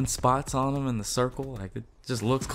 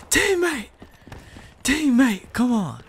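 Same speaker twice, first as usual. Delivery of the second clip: high yelling at a teammate; shouting at a teammate who messed up; frustrated shout; 4 dB louder, slower than usual. Real, not acted. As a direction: yell it out, exasperated.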